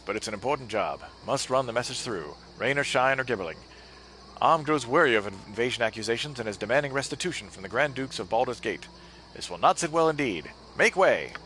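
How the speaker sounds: put-on old-time newsreel announcer; brisk vintage radio announcer; 1930s announcer voice. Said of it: "My nineteen thirties announcer voice returns".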